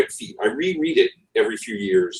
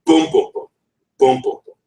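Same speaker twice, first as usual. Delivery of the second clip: beat syllables; 4 dB louder than usual. Shown as a demonstration. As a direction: boom boom boom in a dactyl pattern. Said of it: "It's boom".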